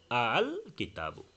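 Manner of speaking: আল with a lightly touched second hamza, not held long; light tashil. Shown as a demonstration. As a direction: slowly ease through আল, halfway between hard catch and long vowel, then কিতাবু. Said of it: "মাঝামাঝি একটা হালকা উচ্চারণ".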